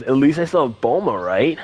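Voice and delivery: lightly put-on cartoon character voice; Yamcha. Artist says his speech-bubble line aloud, light Yamcha voice. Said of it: "In the Yamcha voice, he goes".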